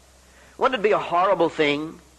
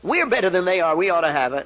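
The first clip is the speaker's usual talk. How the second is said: mock self-righteous; 2 semitones higher than usual. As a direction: play the smug complainer. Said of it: "somebody would say".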